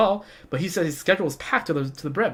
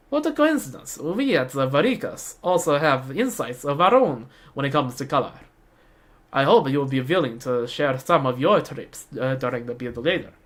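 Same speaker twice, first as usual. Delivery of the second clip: attempted Russian accent, rival designer; amateur Russian-accented character voice. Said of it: "That's my best Russian accent".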